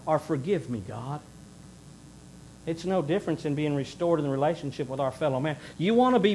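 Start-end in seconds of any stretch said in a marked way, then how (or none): 0.2-1.2 soft, lower, fading prayer; whisper-close plea to God; a contrite forgive me, God, trailing off; humble prayer. Retold or imitated.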